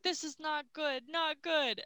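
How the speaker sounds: lightly acted high-pitched dismay; mock worry. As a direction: imitate someone quietly getting worried. Retells a character's worried reaction.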